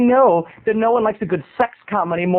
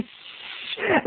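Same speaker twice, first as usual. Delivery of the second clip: unvoiced shush; a whole theater hissing; 8 semitones higher, 8 dB quieter than usual. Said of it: "theater's going".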